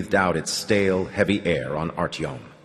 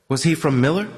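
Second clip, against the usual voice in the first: jangling voice; 7 semitones higher than usual. Acted. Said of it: "His voice jangled".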